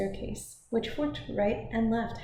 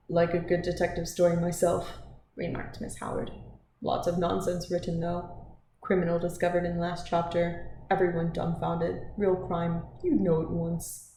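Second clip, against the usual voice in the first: a hint of blunt, no-nonsense opinion; brusque Miss Howard; 2 semitones lower than usual. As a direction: state it firmly in short, blunt phrases. Voices Miss Howard in story.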